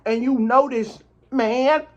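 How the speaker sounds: talking through a mouthful; words round a bite of food; mouth full. Real, not acted. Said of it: "I got food in my mouth".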